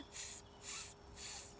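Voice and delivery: very high, very soft squeaky tss; monkey tsk. Acted. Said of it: "monkeys only shook both their hands".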